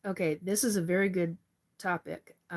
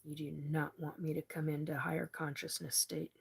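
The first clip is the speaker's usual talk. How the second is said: really pissed off; 3 dB quieter than usual. Real, not acted. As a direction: growl out the threat under your breath. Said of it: "And I'm really pissed off".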